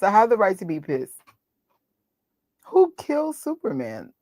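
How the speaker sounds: normal talking voice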